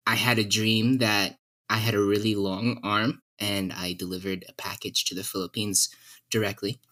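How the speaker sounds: ordinary delivery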